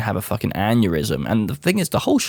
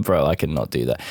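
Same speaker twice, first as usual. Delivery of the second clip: light chuckle into a low refusal; re-enacted amused refusal; chuckled reply; 5 semitones lower than usual. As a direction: chuckle first, then refuse casually. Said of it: "I said it like this".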